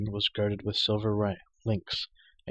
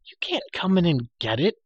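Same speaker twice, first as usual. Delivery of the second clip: weary; 8 semitones higher, 5 dB louder than usual. A narrator's reading. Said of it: "Taryn said wearily".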